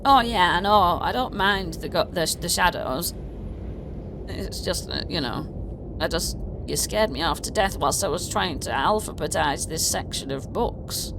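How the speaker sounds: a hint of the fussy goblin librarian. Goblin librarian explaining to the player, lightly voiced. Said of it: "this goblin here, uh, says".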